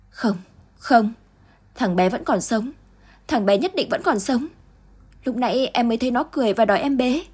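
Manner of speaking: high, pleading insistence; mother insisting to her husband that the boy lives; desperate denial. Acted. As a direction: refuse to accept it. Grieving mother denies son's death.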